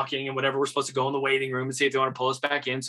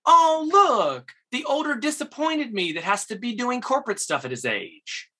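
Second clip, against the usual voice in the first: mock comeback; 8 semitones higher than usual. The speaker mirroring the jab back at the actor, high mock. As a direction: fire the insult right back. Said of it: "I go".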